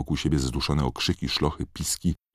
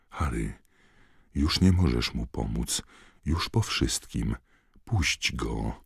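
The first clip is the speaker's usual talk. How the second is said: gentle comfort; 2 semitones lower than usual. Acted. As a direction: ease him into letting go. Dumbledore gently comforting Harry.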